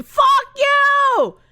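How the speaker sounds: high, loud retort; mock-angry shout. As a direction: yell it back at the teasing chat.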